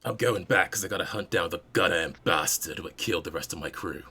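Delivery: put-on fast, bitter old spacer; grizzled veteran. GM voices grizzled NPC's reply.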